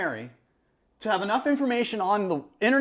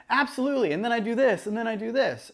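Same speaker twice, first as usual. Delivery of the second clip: interviewee off camera; 3 semitones higher than usual. Shown as a demonstration. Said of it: "It's just different than if I were to be like".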